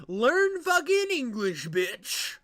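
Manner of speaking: loud, high, drawn-out scolding; mock-angry yell. Host berating the texter, mock-angry yell. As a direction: yell it slowly in mock outrage.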